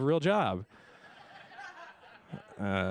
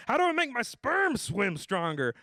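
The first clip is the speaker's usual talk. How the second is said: high, slow mock earnest question; higher slow silly voice; mock earnest dude; 9 semitones higher than usual. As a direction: play the worried guy seriously. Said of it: "my Facebook friends are like".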